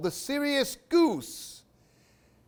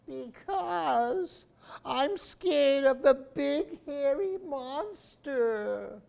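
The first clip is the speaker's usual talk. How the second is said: whispered back; 11 semitones higher, slower than usual. Acted. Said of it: "his tree whispered back".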